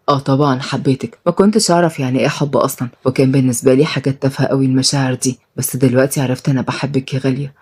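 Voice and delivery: gentle deep-voiced husband; Shaheen, low loving husband. Shaheen confessing love to Ghalia, low and soft.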